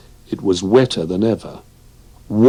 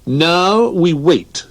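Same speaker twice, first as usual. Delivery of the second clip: slow calm; 10 semitones higher, 4 dB louder, much slower than usual. Acted. George sits down.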